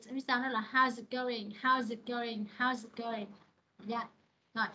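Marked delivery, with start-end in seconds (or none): 0.7-3.3 "how's it going" with a z running into "it"; linked sounds. Shown as a demonstration. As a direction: join "how's it" as one word, "how-zit going". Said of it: "liên quan tới nối âm". (đọc nối âm "how's it going", s thành z)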